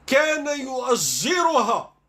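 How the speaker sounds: slow, loud, dramatic reading; mock dramatic. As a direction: stretch it out like a scandal reveal. (قراءة درامية ساخرة ببطء وصوت عالٍ)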